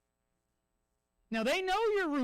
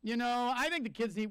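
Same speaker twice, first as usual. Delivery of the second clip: evasive client. Retold or imitated. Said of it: "they're like".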